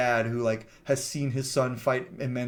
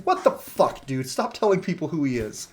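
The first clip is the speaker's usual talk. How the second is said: high, mock-exasperated outburst; 3 semitones higher than usual. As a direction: imitate her incredulous scolding, pitched up. Retold exasperated reaction to blabbed secret.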